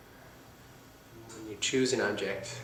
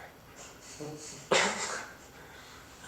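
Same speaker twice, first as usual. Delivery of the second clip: whispered laugh; 6 semitones higher, 5 dB quieter than usual. Real, not acted.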